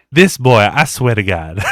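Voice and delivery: loud exasperated mother; exasperated mom. Retold or imitated. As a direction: sigh it out like a fed-up mom.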